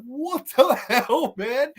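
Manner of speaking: slow, laughing through the words; laughing disbelief. Real, not acted. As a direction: crack up mid-question. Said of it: "I was hysterical laughing".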